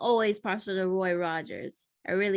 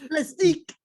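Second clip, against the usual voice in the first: mock awe; 8 semitones higher, 7 dB louder than usual. Player echoing word dramatically.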